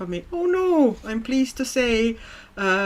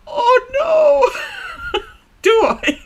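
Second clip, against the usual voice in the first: loud, very high squealed "oh no"; high-pitched shriek of comic dismay; laughing dismay; 8 dB louder, much slower than usual. Real, not acted. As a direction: cry out in amused alarm, half laughing. Reacts to being compared to Doubtfire.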